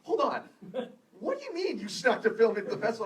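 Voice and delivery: high, loud mock indignation; imitating pissed-off filmmaker. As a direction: cut in like an incensed panelist, acted out. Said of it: "she was so pissed".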